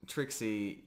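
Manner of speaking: usual speaking voice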